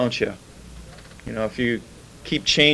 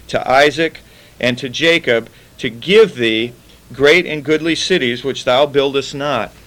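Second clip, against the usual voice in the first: scripture reading. Acted. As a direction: read the verses with solemn weight. Reads scripture aloud to congregation.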